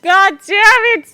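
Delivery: loud slow furious curse; angry shout. Real, not acted. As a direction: bellow the curse in frustration. Frustrated after failed key.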